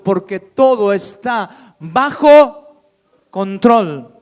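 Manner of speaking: booming slow preaching; emphatic proclamation. Real, not acted. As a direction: land it like a promise from the pulpit. Preacher proclaims God's control.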